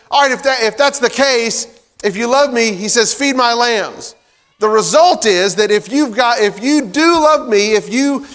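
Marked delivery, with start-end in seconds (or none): 0.1-4.2 a measured, higher voice of Jesus making a charge; Jesus gently pressing. Retold or imitated. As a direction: press the point kindly but firmly. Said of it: "I don't know the inflection of his voice".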